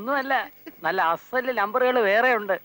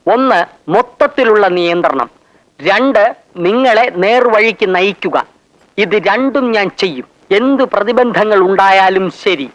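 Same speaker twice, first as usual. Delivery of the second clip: loud declamation; 13 dB louder than usual. Acted. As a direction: proclaim it like a solemn pledge. Declaiming a list of pledges.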